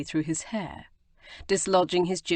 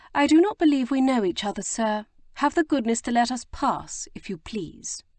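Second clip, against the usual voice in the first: put-on higher, quick, haughty young lady; 6 semitones higher, 3 dB louder than usual. A narrator's reading. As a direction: cut him dead with cool disdain. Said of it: "haughty expression".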